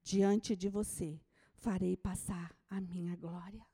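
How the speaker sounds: low, solemn divine voice; a hint of God speaking. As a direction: speak as God, grave and deep. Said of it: "Deus ... diz".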